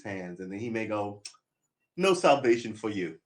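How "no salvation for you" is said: lightly imitated stern denial; a louder, mock-dismissive verdict; soup Nazi. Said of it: "like the soup Nazi".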